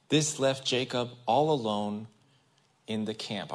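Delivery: steady, measured reading of the verse; scripture reading. Acted. Pastor reading Genesis to the congregation, measured scripture reading. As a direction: read the passage out to the congregation.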